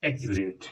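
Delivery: "एक्यूरेट" low and soft, ending on a short vowel. Shown as a demonstration. Teacher showing short vowels, "एक्यूरेट" said softly. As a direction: keep the last vowel of "एक्यूरेट" short and light. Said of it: "अ बोला, धीरे से बोला".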